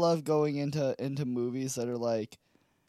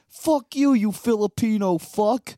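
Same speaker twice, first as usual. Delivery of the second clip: retold angry insult; 4 semitones higher, 6 dB louder than usual. Retelling a shouted insult in fight.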